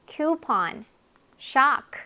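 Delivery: "쿠폰" as KOO-pon, slowly; slow coupon. Shown as a demonstration. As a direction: draw out "쿠폰". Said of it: "요 발음들은요?".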